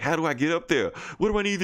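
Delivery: a big brute puzzling out how to fly, mock; Drax flapping. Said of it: "trying to flap his wings like".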